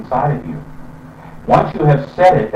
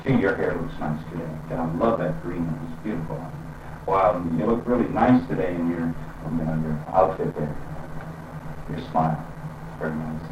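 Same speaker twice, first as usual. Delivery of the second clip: softer and lower, kindly complimenting; gentle praise; 6 semitones lower, 9 dB quieter than usual. Shown as a demonstration. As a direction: pay a sweet compliment to a friend. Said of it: "saying nice things to them".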